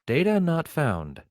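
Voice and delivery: slow flat computer voice; robot voice. Pretend. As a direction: read it like a machine error. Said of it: "Is that a good robot voice".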